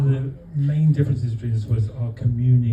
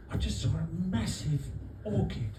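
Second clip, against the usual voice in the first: breathless, higher excited report; excited gasp; 7 semitones higher, 6 dB quieter than usual. Retold or imitated. Acting excited boast.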